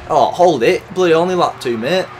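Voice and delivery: high, loud exclamation; loud reaction. Real, not acted. Gamer learning it's only lap two, exclaiming loudly. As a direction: call it out mid-race.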